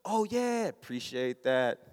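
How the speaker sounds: grudging thanks, slowing and dropping at the end; mock salty, drag out the thanks. Husband thanking wife for the gift, salty. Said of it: "In a salty way".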